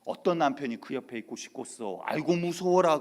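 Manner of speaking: slow teasing preacher drawl rising to a loud mock shudder; pastor's mocking manner. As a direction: tease the wife, lightly voiced. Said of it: "장경록 목사의 말투를 좀 빌어서".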